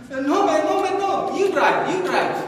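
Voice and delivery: high-pitched, mock protesting refusal; hasty refusal. George hastily refuses to drive.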